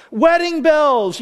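high, slow, sing-out delight; playful excitement. Acted. Preacher as romantics hoping for a wedding, playfully excited. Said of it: "we're excited".

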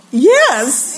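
high, drawn-out self-admiring exclamation; Fonzie. Acted. Teen admiring herself after washing her face, cocky cheer. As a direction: relish it like a cool show-off. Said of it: "I was like Fonzie".

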